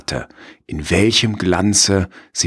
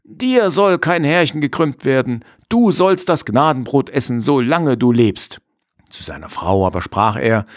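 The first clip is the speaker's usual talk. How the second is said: happy farmer voice; 7 semitones higher than usual. Acted.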